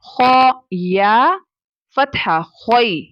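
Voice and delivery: खोई in Arabic style, without stretching; slow Arabic खोई without stretching; Arabic leen. Shown as a demonstration. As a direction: say खोई short and Arabic, no drag. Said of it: "read in an Arabic accent without any stretching".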